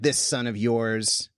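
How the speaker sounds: slow, mild mocking of this son of yours; mocking older son. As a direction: sneer lightly at the brother, slowly. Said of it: "I hear him actually mocking the dad".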